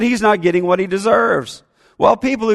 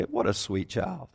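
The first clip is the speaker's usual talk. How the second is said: much softer, lower fake-sweet compliment; sweet polite praise; 9 semitones lower, 12 dB quieter than usual. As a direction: say it nicely, like you mean it on the surface. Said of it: "I'm gonna say".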